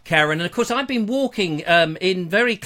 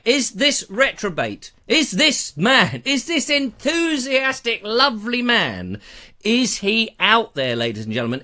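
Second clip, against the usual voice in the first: mock announcer; 3 semitones higher than usual. Grand announcer build-up for Paul.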